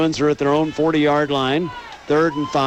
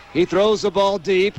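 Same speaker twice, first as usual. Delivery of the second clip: excited call; 6 semitones higher than usual. Real, not acted. Deep pass play-by-play call.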